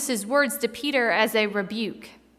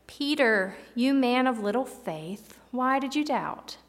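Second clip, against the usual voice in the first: gentle question. Retold or imitated. Jesus gently asking Peter why he doubted, tender. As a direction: ask him kindly why he doubted. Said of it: "hear the difference in my intonation".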